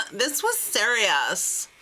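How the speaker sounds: slow, hammed-up indignation; mock pissed-off. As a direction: imitate her scolding him, drawing out the words. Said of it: "she was pissed".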